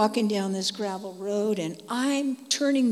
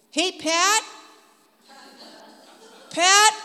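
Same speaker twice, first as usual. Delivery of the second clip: higher, louder call to a friend; 9 semitones higher, 9 dB louder, slower than usual. Retold or imitated. Calling friend Pat to see the feather, loud and high. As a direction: call her over urgently.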